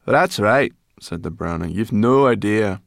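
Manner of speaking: high, sharp little brownie; snippy high brownie. Acted.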